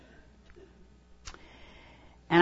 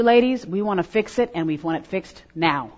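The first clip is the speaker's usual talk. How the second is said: normal talking voice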